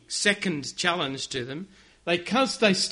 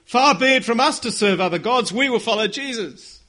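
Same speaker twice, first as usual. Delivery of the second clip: indignation; 4 semitones higher, 5 dB louder than usual. Pretend. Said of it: "with a bit of indignation".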